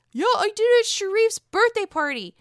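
high mock Whitney reply; squeaky put-on voice, breezy; imitating Whitney. Whitney answering Mary, in a high mocking voice. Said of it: "Mary's like".

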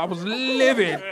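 livid said like a prim white lady; mock prissy livid. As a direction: play it as a fussy customer. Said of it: "Ain't that a word white women use?".

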